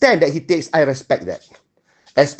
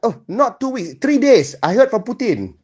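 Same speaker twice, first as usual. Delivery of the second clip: higher, smug imitation of Zelensky's retort; mocking retort; 5 semitones higher than usual. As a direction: toss it off like a know-it-all correcting the president. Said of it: "Dia boleh jawab pula".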